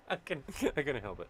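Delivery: giggling through the apology; real laughter; laughing. Real, not acted. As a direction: laugh while you excuse yourself.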